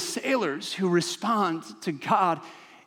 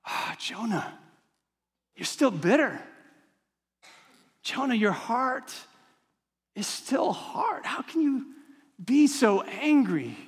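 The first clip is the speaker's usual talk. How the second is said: gentle lament; 4 semitones higher, 3 dB quieter than usual. Pretend. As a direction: sigh over a bitter heart. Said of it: "you read it and you're like".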